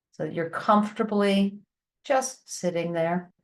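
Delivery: calm, unhurried guiding voice with long pauses; guided breathing meditation. Shown as a demonstration. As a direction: lead them gently through the breaths, leaving space between phrases.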